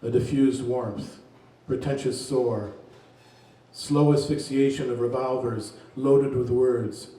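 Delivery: unhurried poetry reading voice; poem reading. Acted. Reads a poem aloud.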